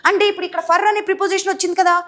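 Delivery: ordinary talk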